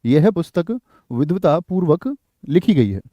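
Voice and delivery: 1 slow model sentence. Shown as a demonstration. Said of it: "क्या बोलोगे?".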